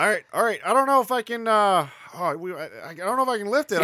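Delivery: put-on nervous high kid voice. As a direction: fret like a scared kid.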